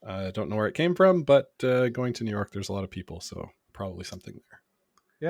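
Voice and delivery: blocked nose from a cold; stuffed up nose. Real, not acted. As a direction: speak through a head cold. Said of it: "you could hear I'm a little stuffed up".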